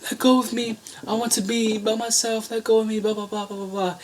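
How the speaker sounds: put-on high whiny voice of an upset girl, fading into mumbled blahs; bratty Zira. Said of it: "and then Zira is just like".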